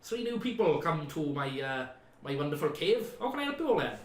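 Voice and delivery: lightly voiced cheery cave hermit; a hint of a jolly cave dweller. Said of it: "He's like".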